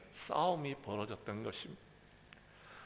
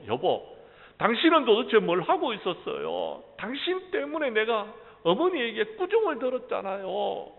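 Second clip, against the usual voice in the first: angry complaint; 10 semitones higher, 7 dB louder than usual. Acted. Wife blaming husband in quarrel.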